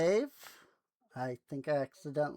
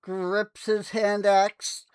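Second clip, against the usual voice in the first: game master narration; 5 semitones higher, 6 dB louder than usual. Acted. Game master describes Aurelius's axe swing, dramatic narration.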